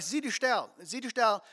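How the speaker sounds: firm, pressing order to hush; threatening. Shown as a demonstration. Crowd pressuring a blind man to hush, threatening. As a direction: demand silence with mild menace. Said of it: "Sie haben bedroht".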